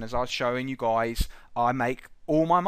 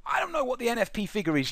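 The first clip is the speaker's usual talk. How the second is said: imagined doubter; 7 semitones higher, 4 dB quieter than usual. Retold or imitated. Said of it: "you might be sitting there thinking".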